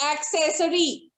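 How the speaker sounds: accessory said ak-SES-uh-ree; correct pronunciation. Shown as a demonstration. Teacher models how accessory is pronounced. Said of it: "but we pronounce it as".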